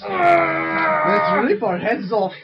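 slow loud hammed-up German; German accent. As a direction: shout it in a mock German voice. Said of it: "That's what he says".

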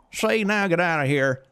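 high Southern fisherman; hammed-up Southern US dismissal; Southern accent. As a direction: shoo them off in a cartoon Southern voice. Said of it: "seems like he had a southern accent".

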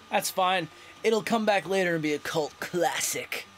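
a hint of surfer dude; laid-back surfer lilt, only slight. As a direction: lightly slip into surfer-dude voice. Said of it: "my voice changed to Surfer Dude".

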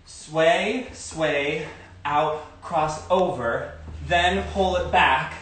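counting the steps. Shown as a demonstration. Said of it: "I will just teach the feet".

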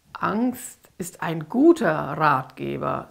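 slow, low demon voice savouring it; gloating. Acted. Lucifer mocks the frightened girl, slow and gloating. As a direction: gloat over the child's fear. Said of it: "sagte Lucifer schadenfroh".

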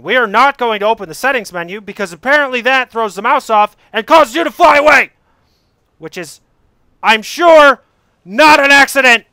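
rising to a loud sarcastic jab; sarcastic outburst. Real, not acted. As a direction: build from reasoning to an indignant cry. Sarcastic rant at game.

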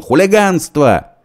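very high loud slow shriek. A narrator's reading. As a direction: shriek the outrage. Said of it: "визжал он". (визг, очень высоко)

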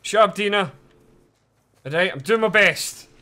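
loud, high-pitched protest; exasperated yelling. Real, not acted. Player answering a game character's nagging, exasperated yelling. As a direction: yell back defensively at a nagging companion.

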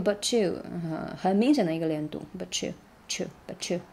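but you run together as one; linked but you. Shown as a demonstration. (but you连读)

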